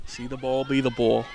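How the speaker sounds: badly faked Boston accent; terrible Boston accent. Commentator imitating a one-liner dude, terrible Boston accent. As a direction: have a half-hearted go at a thick Boston accent. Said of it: "That was a terrible accent".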